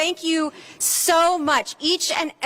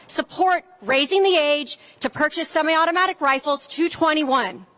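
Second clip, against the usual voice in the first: rally speech; 2 semitones higher than usual. Acted. Speaker at a gun-safety rally.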